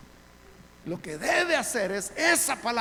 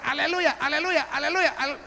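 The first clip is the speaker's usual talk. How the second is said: higher, urgent repeated praise; imitated praying believer; 6 semitones higher, 4 dB louder than usual. Preacher imitating a person praying for the gift, higher insistent repetition. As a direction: mimic someone stuck chanting aleluya. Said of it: "Y la persona puede estar".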